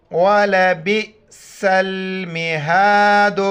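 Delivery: slow measured tajweed chant of ولبئس المہاد; Quran recitation, pausing at verse end. Shown as a demonstration. Teacher recites the verse ending for students, slow chant. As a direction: recite slowly and stop cleanly at المہاد. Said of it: "چونکہ آیت ختم ہو رہے تو ٹھہریں گے".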